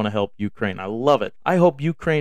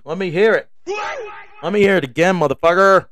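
loud, rising call to the crowd; hype shout; 4 semitones higher, 5 dB louder than usual. Real, not acted. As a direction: pump them up, shout it out. Hyping up the listeners.

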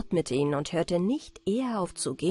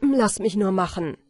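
louder, confident call; young man calls out, louder; 6 dB louder than usual. Acted. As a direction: take charge with a bold call.

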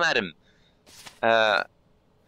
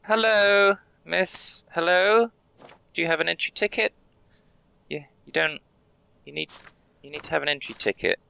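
high, sing-song customer-service voice; cheery border clerk; 7 semitones higher than usual. Acted. Guard welcoming a traveller, high and chirpy. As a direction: greet each traveller like a chirpy official. Explaining ticket rule as guard.

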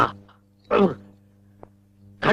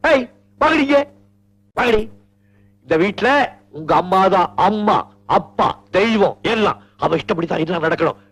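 angry scolding. Acted. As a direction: bark at the girls to come here. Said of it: "இது நிஜமான கோபமா இல்ல எனக்காக நடிக்கிறீங்களா".

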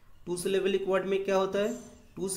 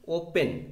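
ओपन with the weight on ओ; ओपन, stressing its first syllable; much slower than usual. Shown as a demonstration. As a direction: lean on the opening ओ in ओपन. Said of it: "ओ में क्या ज़्यादा stress दे रहा है".

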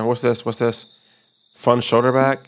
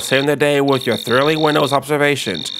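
sarcastic emo; 3 semitones higher than usual. Acted. Emo neighbor mocking Charles, lightly voiced and sarcastic. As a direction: sneer it like a gloomy emo.

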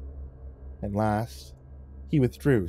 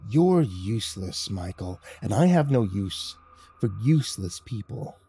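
a hint of a cruel boss; menacing leader. Leader threatening narrator.

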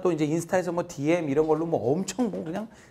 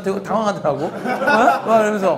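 laughing; 3 semitones higher, 6 dB louder than usual. Real, not acted. Student flustered by his advice.

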